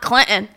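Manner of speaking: "Clinton" with the T swallowed; local pronunciation. Retold or imitated. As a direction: imitate the local dropped-T "Clinton". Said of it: "Stop rolling it like Clinton".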